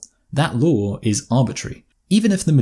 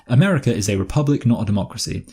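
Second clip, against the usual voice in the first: smug lecturing tone, lightly put on; a mild mocking know-it-all; mock condescension. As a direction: imitate a know-it-all correcting you. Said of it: "as if they're educating me".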